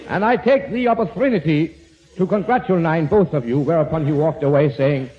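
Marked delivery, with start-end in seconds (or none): 0.1-3.6 sarcastic. Acted. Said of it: "But Bob just said sarcastically".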